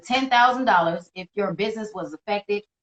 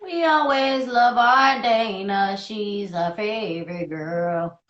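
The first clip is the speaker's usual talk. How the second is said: slow, stretched "always"; lovingly drawn out; sing-song affection; fond drawn-out praise; much slower than usual. Real, not acted. Affectionate shout-out to Dana.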